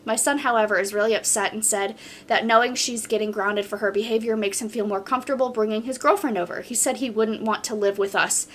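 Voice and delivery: even, flowing reading of a post; story read-aloud. Acted. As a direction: read the account straight through, steadily. Reads a submitted story aloud.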